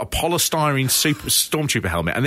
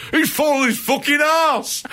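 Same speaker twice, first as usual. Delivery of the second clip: high-pitched imitated shout; Davey Boy Smith; 11 semitones higher than usual. Co-host mimics wrestler shouting in the background, high imitated shout. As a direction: yell it out, much higher than usual. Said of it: "I think he shouts".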